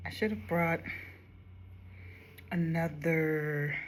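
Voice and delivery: whispered to herself. Real, not acted. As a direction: breathe the words out with no voice. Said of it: "talking to herself doing makeup".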